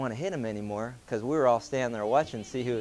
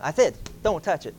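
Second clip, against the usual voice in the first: exasperated dad; 2 semitones higher than usual. Retold or imitated. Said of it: "the dad going".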